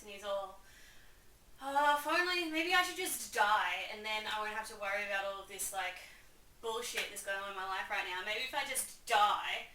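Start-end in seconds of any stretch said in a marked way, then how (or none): 1.6-9.7 melodramatic mock lament; woe-is-me. Hamlet moaning about wanting to die, woe-is-me. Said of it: "Hamlet's just woe is meing".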